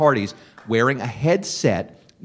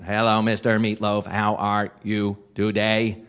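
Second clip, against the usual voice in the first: robot voice; 3 semitones lower than usual. Retold or imitated. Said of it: "that was my robot voice".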